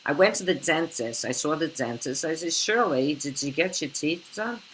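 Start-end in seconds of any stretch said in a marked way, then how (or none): 0.0-2.3 put-on Long Island accent with a TS for D; imitating a Five Towns Long Island speaker; lightly put-on Long Island accent. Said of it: "Long Island, they sometimes say". 2.5-4.6 put-on Long Island accent, slow, with a TS for D; imitating a Long Island friend; mild Long Island put-on. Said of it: "instead of D, you have a T S".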